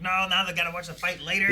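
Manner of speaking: high, loud wail of disappointment; mock dismay. Viewer dreading the episode ending mid-fight, mock dismay. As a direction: cry out in exaggerated dismay. Voicing his worry about a cliffhanger.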